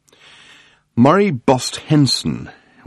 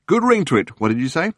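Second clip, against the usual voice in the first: gushing tabloid hack; 8 semitones higher than usual. Acted. Journalist Murray greeting Arthur on the phone, gushing. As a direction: lay the flattery on thick.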